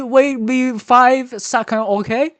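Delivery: broken English, put-on Chinese accent; fake Chinese accent. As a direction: play a fake Chinese man. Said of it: "stop the accent".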